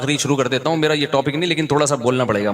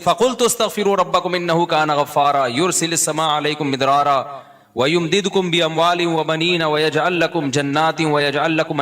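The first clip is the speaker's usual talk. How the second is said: Quranic recitation. Acted. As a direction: chant the verses in measured tajweed.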